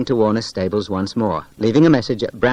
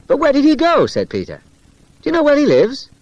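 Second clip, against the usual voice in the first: urgent; 14 semitones higher, 3 dB louder than usual. Acted. Urgent questions about Tom.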